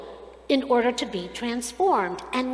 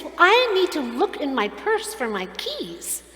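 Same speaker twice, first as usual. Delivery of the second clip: higher-pitched mock indignation; huffy retold protest; indignant; 5 semitones higher than usual. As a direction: imitate an affronted shopper defending herself. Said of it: "looks all indignant and says".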